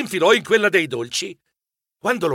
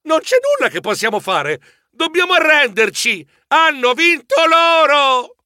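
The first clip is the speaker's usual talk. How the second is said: desperate cry; 10 semitones higher, 5 dB louder than usual. A narrator's reading. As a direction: cry defeat, building to the end. (grido disperato in crescendo)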